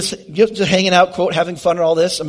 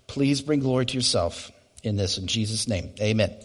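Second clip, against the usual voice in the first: prayer. Acted. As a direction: pray it humbly, settling down at the end. Opening prayer to close.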